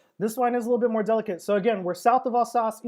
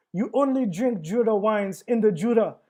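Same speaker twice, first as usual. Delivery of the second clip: clumsy mock French accent, angry; a hammed-up French accent; bad French accent; 2 semitones higher than usual. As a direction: imitate an angry Frenchman badly. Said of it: "was that really his accent".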